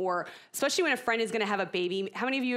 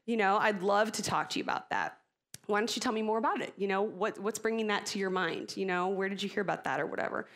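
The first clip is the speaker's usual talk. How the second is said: calm reply. Shown as a demonstration. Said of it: "I've taught myself to just calmly say".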